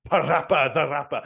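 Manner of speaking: a light grand Welsh actor impression; Michael Sheen voice. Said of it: "I'm very much going for my Michael Sheen voice".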